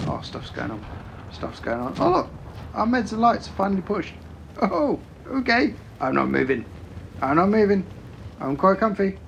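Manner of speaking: high, lazy, self-satisfied mock voice; mock content camper. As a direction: lounge in the bush and shrug it off. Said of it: "Just go".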